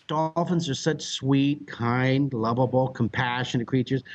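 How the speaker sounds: slow, word-by-word irony; mock-sweet praise. Storyteller setting up the dolphins beating him up, mock-sweet. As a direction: dwell on each adjective with feigned admiration. Ironic praise before being beaten up.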